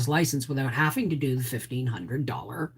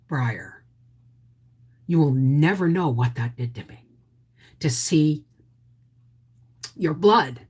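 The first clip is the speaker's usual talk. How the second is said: sincere, heavy-hearted. Retold or imitated. Mother's heartfelt words to son.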